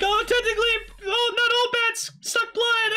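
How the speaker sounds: high mock voice of the villain; nerdy correcting voice. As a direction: play a pedantic know-it-all. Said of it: "and then he's like".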